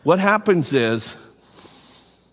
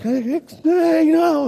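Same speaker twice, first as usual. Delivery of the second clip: daughters' teasing hey; 9 semitones higher than usual. Retold or imitated. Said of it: "they're like".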